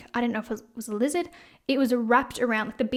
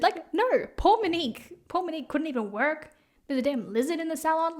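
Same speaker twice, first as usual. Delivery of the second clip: indignant whine; 5 semitones higher than usual. Retold or imitated. Indignant reply to followers.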